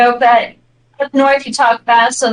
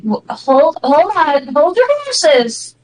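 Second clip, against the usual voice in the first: drawn-out, slowed-down "hold your horses"; slow talker; 4 semitones higher, slower than usual. Acted. Slow Texan interrupting a fast talker, drawling slowly. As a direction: put the brakes on, stretching the words. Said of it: "where they talk real slow".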